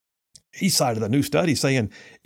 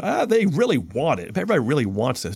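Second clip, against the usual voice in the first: mock quote. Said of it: "This charlatan's trying to pretend".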